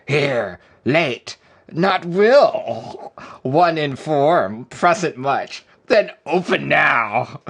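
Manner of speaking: loud, slow, campy gay pirate with yars; hammed-up gay pirate, words drawn out and swooping. Streamer performs a redeemed gay pirate reading for a viewer, hammed-up. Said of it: "here is your gay pirate".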